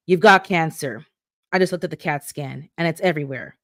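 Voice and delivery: blunt and flat, no sympathy at all; matter-of-fact. Acted. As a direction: deliver the diagnosis like a routine report. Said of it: "he says matter-of-factly".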